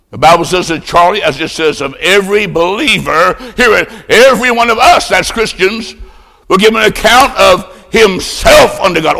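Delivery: ringing emphasis, swelling to high peaks; forceful preaching. Acted. Preacher warning every believer of judgment, forceful. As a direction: preach it hard, punching the key words.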